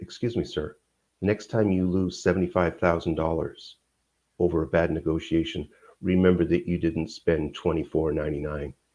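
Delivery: soft-voiced, low, gentle tone. Retelling calling after a man about to walk out the door, soft voice. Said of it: "And I say in a soft voice".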